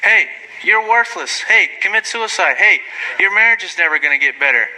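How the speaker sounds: lightly voiced devil whispering lies; mock devil taunting. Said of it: "the devil saying".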